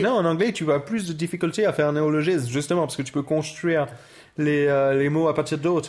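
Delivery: put-on French with an English accent. Arguing with co-host about neologisms, English accent. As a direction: play an Englishman speaking French.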